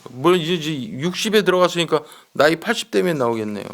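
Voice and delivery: ordinary delivery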